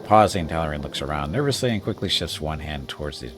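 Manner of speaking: steady storyteller read; story narration. Acted. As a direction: set the scene like a game master. Reads the game's scene text.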